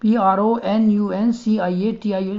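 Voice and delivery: letters spelled slowly one by one; teacher dictating a spelling to students. Shown as a demonstration. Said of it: "प्रोनाउंसिएशन".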